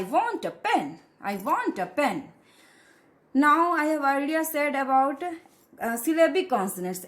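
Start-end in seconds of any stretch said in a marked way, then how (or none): 0.0-2.2 "a" said as a short schwa in "I want a pen"; weak-form A. Shown as a demonstration. Teacher showing A before a consonant, weak "a" as uh. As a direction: reduce "a" to uh between "want" and "pen". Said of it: "ए को हम अ बोलेंगे".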